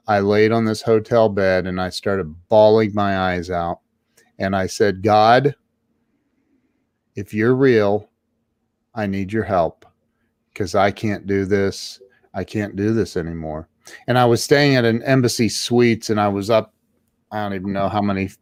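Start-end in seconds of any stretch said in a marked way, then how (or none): 5.0-13.7 desperate prayer. Retold or imitated. Man alone on hotel bed begs God, subdued. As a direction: retell a plea with long pauses, understated.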